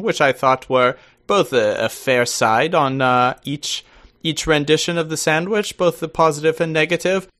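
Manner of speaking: put-on posh-phrased British accent. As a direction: play the very British guest, drawing out the formal phrasing. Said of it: "as enjoyable as this accent is".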